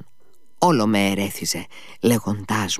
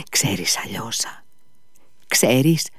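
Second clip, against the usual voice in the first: grave, confidential; 2 semitones higher, slower than usual. A narrator's reading. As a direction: confide it with great seriousness. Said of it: "πρόσθεσε με τρομερή σοβαρότητα και σαν εμπιστευτικά".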